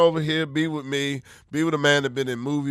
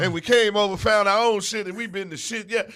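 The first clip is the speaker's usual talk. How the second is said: rapper boast; 5 semitones higher than usual. Acted.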